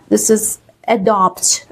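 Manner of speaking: adopt said uh-DOPT, starting on schwa; teacher modelling adopt. Shown as a demonstration. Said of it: "We never start by A".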